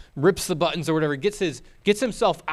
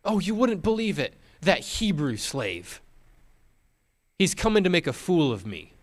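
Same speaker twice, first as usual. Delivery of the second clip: hammed-up high lament; acting wife; 5 semitones higher than usual. Wife lies to the servants in a high, hammed-up lament. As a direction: play the injured lady, overdone. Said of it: "she is an actor".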